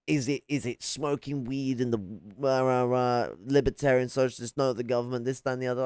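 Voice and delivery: lightly hammed-up mimicry of a ranter; mock blustering, tailing into blah-blah; mock condescending rant. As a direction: imitate a condescending shouty speaker, dismissively. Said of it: "yelled at you in this condescending, elongated word, shouty mouth crap".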